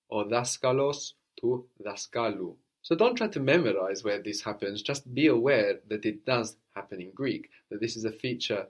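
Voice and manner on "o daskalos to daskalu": teacher showing the accent moving forward; stress shift demo. Shown as a demonstration. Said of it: "we could see that accent moving".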